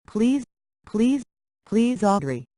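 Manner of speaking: high pleading please. Acted. Begging Audrey to pick up.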